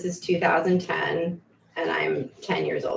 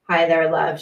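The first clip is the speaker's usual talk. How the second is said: put-on Kiwi accent; 6 dB louder than usual. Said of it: "she says in her pretty Kiwi accent".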